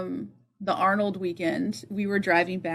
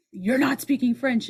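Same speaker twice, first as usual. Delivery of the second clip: mildly raised pitch, retold correction; retold scolding; 4 semitones higher than usual. Woman correcting a French student, retold scolding. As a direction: tell them off, lightly imitated. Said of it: "this woman was like".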